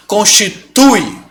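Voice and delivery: Constitui said slowly, syllable by syllable. Shown as a demonstration. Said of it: "Olha esse ditongo". (Constitui, devagar, sílaba por sílaba)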